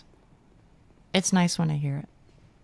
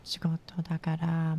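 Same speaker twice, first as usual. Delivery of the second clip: whispering; 4 dB quieter than usual. Real, not acted. Whispered Japanese goodbye to chat.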